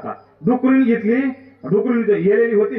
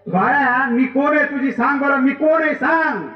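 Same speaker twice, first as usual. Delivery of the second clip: higher-pitched, lightly acted mother quizzing her child; mildly insistent mother; 5 semitones higher than usual. Mother asks little son who she is, lightly acted insistence. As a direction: press the child for an answer, pitch lifted.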